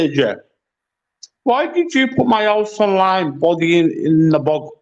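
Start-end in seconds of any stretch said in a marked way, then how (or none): 1.4-4.7 talking through a mouthful; words round something in the mouth; mouth full. Real, not acted. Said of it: "Stop fucking talking with your mouth full".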